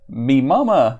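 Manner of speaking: loud cavewoman exclamation, near normal pitch; exclaiming. Acted. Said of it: "the woman exclaims again".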